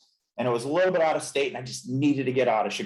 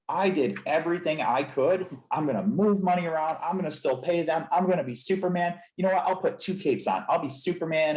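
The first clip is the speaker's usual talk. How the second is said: higher-pitched, insistent pep talk to self; mildly urgent vow, pitched up; retold determination; 4 semitones higher than usual. Chiropractor recalling pep talk to self, determined. Retelling own vow against failing.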